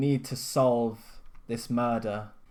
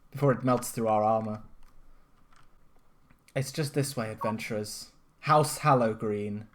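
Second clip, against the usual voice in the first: cheerful NPC voice. Acted. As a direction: greet them brightly in character.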